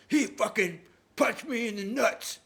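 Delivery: high, loud, slow whining complaint; a hurt brother tattling to mom; whiny brother. Retold or imitated. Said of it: "And John goes".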